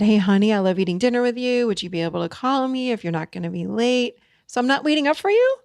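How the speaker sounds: "for you?" flips up high at the very end; high note at the end. Shown as a demonstration. Coach showing the spouse question ending on a high note. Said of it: "with that high note".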